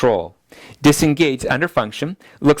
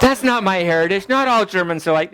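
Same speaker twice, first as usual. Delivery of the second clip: mock indignant mother; 6 semitones higher than usual. Mother arguing with son.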